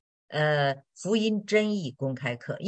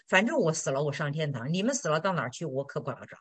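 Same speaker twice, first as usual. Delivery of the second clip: fading to much softer, offhand shrug; unbothered mother; 2 semitones lower, 6 dB quieter than usual. Retold or imitated. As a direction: let it drop away, she doesn't care. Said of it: "那个妈就说". (妈妈满不在乎，越说越轻)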